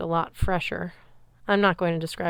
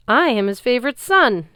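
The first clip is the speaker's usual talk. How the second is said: higher, louder boast; booming giant; 5 semitones higher, 8 dB louder than usual. Acted. Giant boasting to Percy, loud booming voice. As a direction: boom it with pride. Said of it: "Antaeus boomed".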